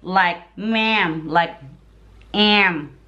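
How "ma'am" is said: MA'AM with a "cat" vowel; American MA'AM. Shown as a demonstration. Wife blending in with Americans, MA'AM with "cat" vowel. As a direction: say MA'AM the American way, short flat "a". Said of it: "how they s-, talk".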